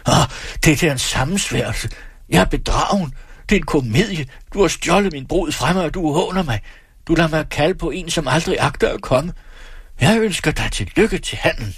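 high, agitated accusing cry; jilted groom shouting at bride and uncle; furious outburst. A narrator's reading. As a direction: hurl the words at them, betrayed. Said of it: "råber".

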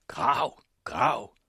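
loud, urgent double order; shouted command. A narrator's reading. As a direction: drive the diggers on with a shout. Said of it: "råbte den skrækkelige blodhævner".

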